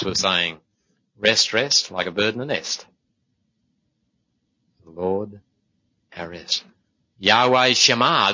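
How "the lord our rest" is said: normal talking voice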